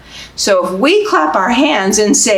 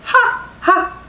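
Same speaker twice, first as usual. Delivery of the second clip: high playful ha ha; a light fake giggle for baby; mock laugh; 11 semitones higher than usual. Librarian laughing with babies in the story, high playful.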